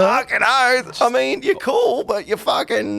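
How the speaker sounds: loud, high, brash barman voice; a rowdy pub barkeep ribbing a customer; gruff Aussie bartender. Acted. Bartender teasing the bard, loud and brash.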